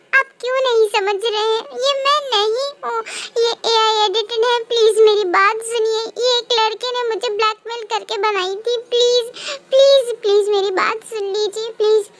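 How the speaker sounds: crying, begging to be heard; desperate, tear-choked denial; tearful pleading. Acted. Accused wife begging through tears. (रोते हुए गिड़गिड़ाना)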